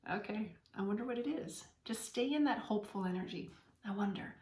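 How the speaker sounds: light, curious musing to yourself; playful wondering. Shown as a demonstration. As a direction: toy with the question, no pressure. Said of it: "I invite you to be in a playful energy with it".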